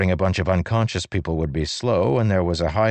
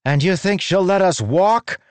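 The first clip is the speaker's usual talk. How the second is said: high, loud angry shout; 13 semitones higher, 6 dB louder than usual. A narrator's reading. Human woman shouting up at Leshwi in anger. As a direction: yell it at the hovering fused. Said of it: "one of the human women shouted".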